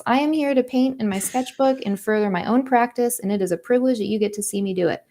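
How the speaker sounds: brisk, high, self-assured declaration; defiant real voice. Retold or imitated. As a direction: say it proudly and quickly, as your confident true voice. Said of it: "That's what Dylan voice says".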